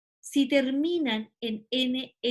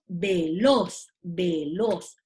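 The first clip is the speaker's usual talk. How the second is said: "veloz" split for the class, weight on LOZ; stress on last syllable; 6 semitones lower, much slower than usual. Shown as a demonstration. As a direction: say "veloz" as ve-LOZ, low and deliberate. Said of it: "Tu sílaba tónica está en esta posición". ("veloz" marcando la última sílaba, en tono bajo)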